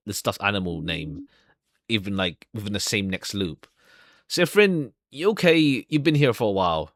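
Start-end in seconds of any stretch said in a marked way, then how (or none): 4.3-6.9 lightly voiced, higher concerned call; concerned housemaid. Housemaid checking on Sifrin in the bathroom, lightly concerned. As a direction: check on him kindly.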